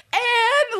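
high, loud pleading call; calling after her. Acted. Ann Walker calling after departing Ann, desperate. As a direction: cry out the name after someone leaving. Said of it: "like, she calls after her".

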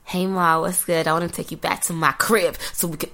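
playful attempt at an American accent; hammy American pick-up line. Shown as a demonstration. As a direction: put on a smooth American chat-up voice. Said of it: "my best American accent".

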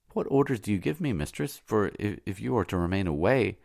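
put-on anxious old servant, quick and high; old nurse voice. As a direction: press her gently, worried. Old slave nurse questions mistress.

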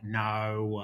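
mild mock-Australian "no"; a hint of put-on Australian accent; imitated Australian accent. Australian guest imitating people who imitate Australians, mock-Australian accent. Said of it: "when people are like".

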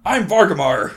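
a hint of a hearty dwarf; booming jolly dwarf introduction. GM voices the dwarf.

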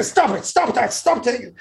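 laughing while begging it to stop; high laughing plea. Retold or imitated. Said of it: "I say".

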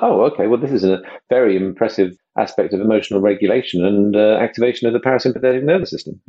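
a hint of an earnest scientist, a bit fast; bad scientist impression. Podcaster mimics the scientist Catherine, a light bad impression. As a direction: lightly mimic a keen science expert explaining. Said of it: "that's a really bad impression 'cause Catherine doesn't talk like that".

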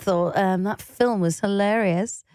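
slow, lightly plummy posh voice; mock posh voice. Partner keeps mocking non-Scouse speech, slow posh voice. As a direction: drag it out like a posh southerner. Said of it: "Why am I posh now".

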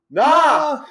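high, loud mock "nah"; mock yelled dismissal. Emilio dismisses a noise outside, hammed-up high yell.

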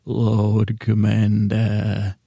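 slow, stretched Stannis; a hint of stern Stannis, very slow; Stannis impression. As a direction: drag the two words out grimly and slowly. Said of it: "that means Stannis wants to".

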